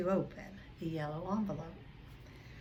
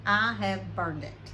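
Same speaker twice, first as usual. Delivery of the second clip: curt; 6 dB louder, slower than usual. Acted. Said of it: "said Uncle Vernon shortly".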